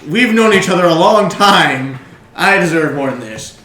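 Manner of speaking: loud, slow indignant plea; protesting prisoner. Acted. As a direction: protest loudly, easing down at the end. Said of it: "And he goes".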